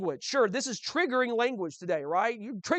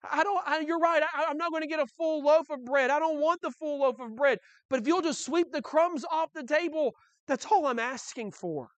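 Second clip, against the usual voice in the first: pleading woman; 5 semitones higher than usual. Retold or imitated. Voicing the pleading woman, in tears.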